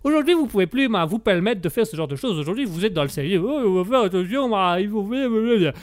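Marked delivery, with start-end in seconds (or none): 3.4-5.7 babbled mock fussiness; mocking the cautious. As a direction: parody a fusspot, trailing into blah-blah. Mocks today's overcautious people.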